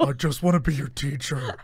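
lightly voiced ghostly villain; a hint of a spooky put-on voice; Kylo Ren. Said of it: "your Kylo voice is very similar to your ghost voice".

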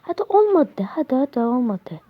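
taunting. Real, not acted. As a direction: goad the enemy. Taunting during fight. (alaycı kışkırtma)

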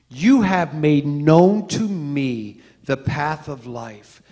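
slow, solemn reading of the psalm; scripture reading. Acted. Preacher reading David's psalm to the congregation, slow and solemn. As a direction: read the verse slowly and reverently. Reads Psalm sixteen eleven aloud.

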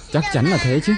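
a keen shouted yes; eager shout. Acted. Friend backing the plan to bring Tiên Cát home, eager shout. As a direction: punch it out, all in. Eager agreement to fetch her back.

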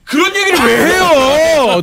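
mock swooning. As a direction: play at being flustered. Mock swooning at host's talk.

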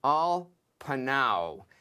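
"al panau" read slowly in Hebrew; Hebrew read aloud. Shown as a demonstration. Teacher reads the Hebrew phrase "al panau" to his class slowly. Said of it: "this last phrase".

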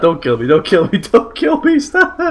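mock pleading. Real, not acted. Pleading as teammate drives at him.

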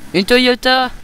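sudden high startled shout; panicking gamer. Real, not acted. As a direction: yell it out, caught off guard. Spots the car in game.

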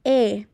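E said alone and held; isolated, lengthened E; pronunciation demo. Shown as a demonstration. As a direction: model E clearly for learners. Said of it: "Así se pronuncia la".

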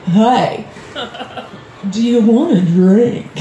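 slow, drawn-out offer; lightly acted creepy host, pausing before the offer; Bill Cosby. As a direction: offer it slowly and suggestively. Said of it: "I imagine that's what Bill Cosby does".

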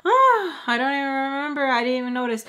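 high, mocking mean-girl act; exaggerated high-pitched brush-off; trying to be mean. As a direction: imitate someone putting on spiteful indifference. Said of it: "trying to be so mean".

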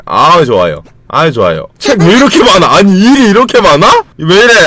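normal talking voice

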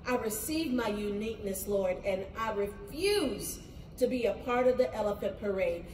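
hushed prayer that swells at the amens. Acted. Leads closing prayer.

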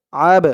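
"আব" with a small push after the b; qalqalah bounce. Shown as a demonstration. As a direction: bounce the final b of "আব" into a brief echoing release. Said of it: "একটু ধাক্কা খাবে আওয়াজটা".

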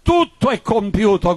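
preacher's impassioned quoting of a cry; retold cry. Preacher retelling Jesus' words on the cross, retold cry. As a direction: cry it out as part of the sermon. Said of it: "Gesù gridò subito dopo".

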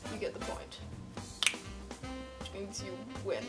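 quiet, deflated; sad. Real, not acted. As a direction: let it sink in defeated. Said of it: "You sound so sad".

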